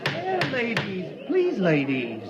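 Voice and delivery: pleading for order. Acted. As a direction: start high over the uproar, then soften. Captain calming uproar after the kiss.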